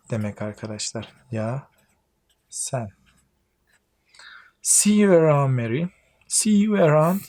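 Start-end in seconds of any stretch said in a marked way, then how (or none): 4.6-7.2 whispered dialogue line, no voice. Shown as a demonstration. Teacher whispers a dialogue line to the class.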